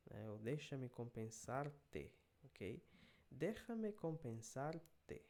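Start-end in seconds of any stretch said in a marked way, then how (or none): 0.4-2.1 "Déjame compensarte" read at half speed, syllable by syllable; slow dictation. Shown as a demonstration. Teacher modelling the phrase, slow dictation. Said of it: "teacher reading slowly". 3.3-5.2 "Déjame compensarte" read at half speed, syllable by syllable; slow dictation. Shown as a demonstration. Teacher modelling the phrase, slow dictation. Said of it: "teacher reading slowly".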